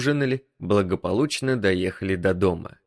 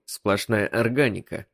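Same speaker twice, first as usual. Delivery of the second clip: ordinary delivery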